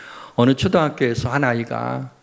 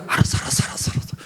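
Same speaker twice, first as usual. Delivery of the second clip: flustered husband; much faster than usual. Retold or imitated. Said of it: "어떻게 이 상황을 벗어나나".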